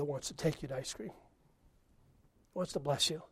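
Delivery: very slow, soft appeal; lingering gentle invitation; tender. Acted.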